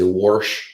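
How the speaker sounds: "warsh" with an added r; "warsh" in a Michigan accent. Shown as a demonstration. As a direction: say wash as "warsh", r before the sh. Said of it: "the Michigan, where instead of wash, they'll say".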